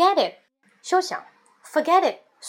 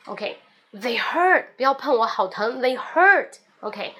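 mock pain; slower than usual. Shown as a demonstration.

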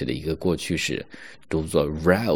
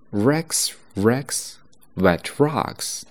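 Rex Rex wet rocks spaced out; slow and clear; slow reading; 4 semitones higher, much slower than usual. Shown as a demonstration. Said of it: "我再重新慢速的去读一下啊". (慢速朗读)

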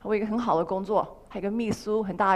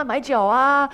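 normal talking voice

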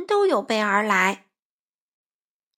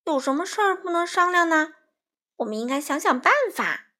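higher-pitched earnest appeal; entreating, pitched up; pleading; 6 semitones higher than usual. A narrator's reading. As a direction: implore everyone to work it out. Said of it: "欢仔央求大家说".

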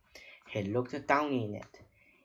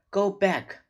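loud, high squawk; parrot squawk; 8 semitones higher, 7 dB louder than usual. A narrator's reading. Parrot sending the children home, squawking. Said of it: "squawked Polly".

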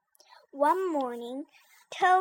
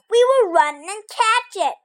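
urgent; 8 semitones higher, 10 dB louder than usual. Acted. Frog urges the chase.

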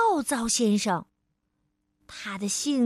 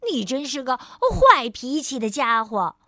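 teasing; 4 dB louder than usual. Acted. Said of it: "快乐先生笑了".

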